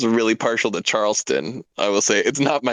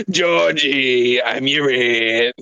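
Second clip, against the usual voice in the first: stern aunt voice; 2 semitones higher, much slower than usual. Acted. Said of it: "play the principal with that voice".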